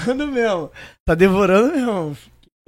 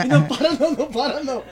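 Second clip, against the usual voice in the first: laughing. Real, not acted. Laughing at the scene.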